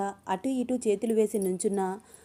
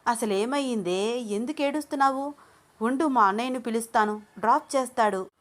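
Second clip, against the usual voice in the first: higher, slowed first question, worried; anxious friend; 4 semitones higher than usual. Acted. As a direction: ask why she's crying. Junnu anxious, crying friend.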